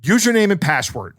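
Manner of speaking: mimicked curt boss; terse, impatient order, lightly acted; curt demand. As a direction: demand it curtly, no niceties. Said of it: "very curtly says".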